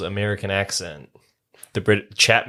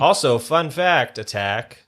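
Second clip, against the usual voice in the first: announcer; 3 semitones higher, slower than usual. Acted. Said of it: "announcing a segment".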